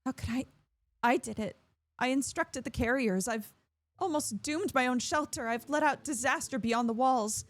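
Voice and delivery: lightly voiced guilt and panic; Lara, distraught. Lara blames herself.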